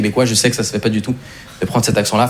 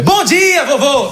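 squeaky, much higher bright hello; a cheery little-boy hello, pitched way up; chirpy greeting; 12 semitones higher, much slower than usual. Retold or imitated. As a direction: greet grandpa with a chirpy high burst.

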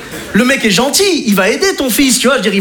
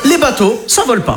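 mocking repeat; 3 semitones higher than usual. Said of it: "repeats operator's line".

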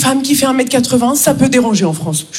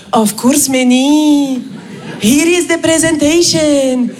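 put-on Indian accent; much slower than usual. Raj replying to email.

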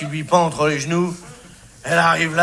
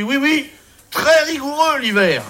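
Indian voice; 9 semitones higher than usual. Acted. Indien voiced in a joke.

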